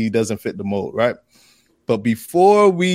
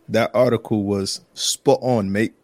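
lightly put-on London accent; 2 semitones lower than usual. Shown as a demonstration. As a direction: have a playful go at a London accent. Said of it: "use my best London accent".

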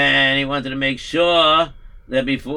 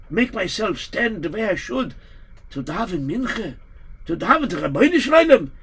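put-on pleading old rabbi; 4 semitones higher than usual. Rabbi lamenting he cannot pray.

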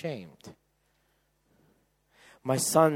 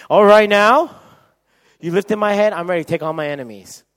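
high, loud fighting boast; hyped-up battle cry; 7 semitones higher, 16 dB louder than usual. Acted. David, head lifted, takes on enemies, loudly triumphant. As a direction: call it out like a challenger. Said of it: "he doesn't say".

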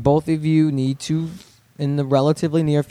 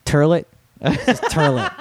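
put-on mom's New York accent; slower than usual. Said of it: "Her accent's something special".

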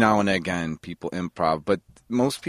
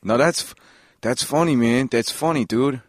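retold forced amusement; 3 semitones higher than usual. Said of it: "people being like".

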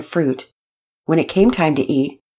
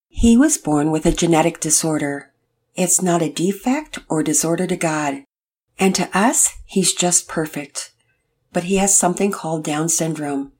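gentle dad voice; 3 semitones higher than usual. Acted. Mister Hicks explaining gently.

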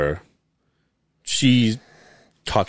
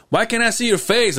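high-pitched puzzled question as dad; imitating dad; 11 semitones higher than usual. Dad asking son on a video call, high imitated question. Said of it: "and then he goes".

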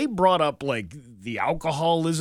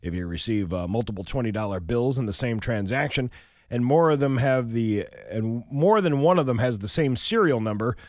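radio newscaster voice; news read; 2 semitones lower than usual. Acted. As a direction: read the headlines steadily. Reads the local news.

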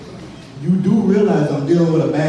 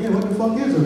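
inner agreement, laughing; 7 semitones higher, faster than usual. Retold or imitated. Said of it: "in my mind, I'm like".

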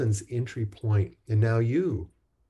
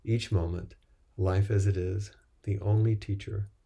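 measured, even-toned recital in short phrases; liturgical recitation. Real, not acted. Teacher repeating practice principles to the group, measured recitation. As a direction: recite it as a vow, pausing after each phrase.

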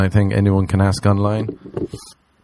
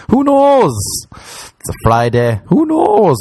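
shouted aside; 12 semitones higher, slower than usual. Real, not acted. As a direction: toss it out in a sudden high yell.

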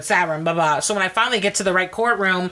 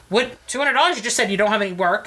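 incredulous; 2 semitones higher than usual. Retold or imitated. I'm like.

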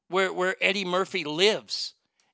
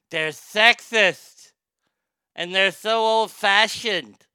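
mock critic; 4 dB louder, slower than usual. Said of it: "some calling out the film's".

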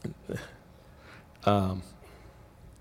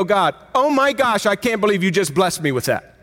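overwhelmed gratitude; 8 semitones higher, 5 dB louder than usual. Retold or imitated. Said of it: "you go".

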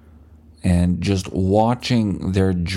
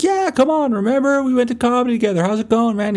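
mock bouncer; faster than usual. Bouncer insists he knows him.

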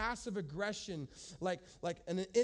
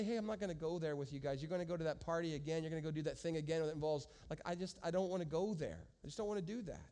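calm, non-judgy refusal; 4 semitones lower, 3 dB quieter, faster than usual. Shown as a demonstration. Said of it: "without being judged, you can just say".

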